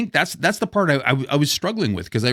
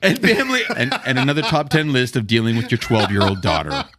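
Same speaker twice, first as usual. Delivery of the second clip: chuckling through the words; laughing while talking; 4 semitones lower than usual. Real, not acted. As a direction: laugh as you joke. Joking aside about his daughter.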